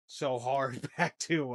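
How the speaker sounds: real laugh breaking into the words. Real, not acted. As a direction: laugh helplessly mid-sentence. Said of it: "I don't know why I'm laughing".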